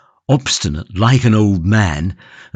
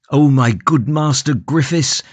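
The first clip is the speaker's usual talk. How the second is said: imploring; 5 semitones higher than usual. Acted. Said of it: "said Van Baal imploringly".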